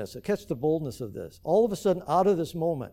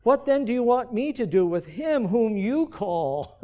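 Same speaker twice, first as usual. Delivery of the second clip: Pilate's question; 5 semitones higher than usual. Acted. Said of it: "Pilate answered and said to them".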